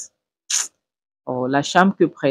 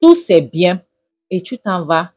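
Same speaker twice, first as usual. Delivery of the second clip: scolding mother; 3 dB louder than usual. Retold or imitated. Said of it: "j'ai dit".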